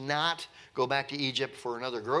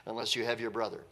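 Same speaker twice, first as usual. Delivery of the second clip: stern ruler's warning; 6 semitones higher than usual. Retold or imitated. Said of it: "he said".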